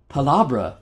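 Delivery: booth barker reciting the slogan; sales pitch catchphrase. Retold or imitated. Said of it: "I'm mocking the hell out of them".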